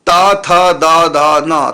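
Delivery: ता था दा धा ना, each syllable said separately; the ta row, letter by letter; letter recitation. Shown as a demonstration. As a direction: drill the ta row for a class. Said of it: "तवर्ग इसको बोलते हैं".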